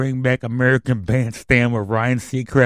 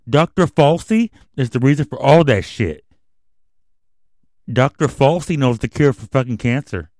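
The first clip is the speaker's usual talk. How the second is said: raised, heated rant; fired-up rant at the doctor; angry rant; 3 semitones higher, 5 dB louder than usual. Real, not acted. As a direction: build the fury into a loud rant. Ranting about Doctor Falsey.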